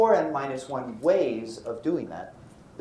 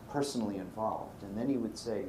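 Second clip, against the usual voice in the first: ordinary talk, nothing marked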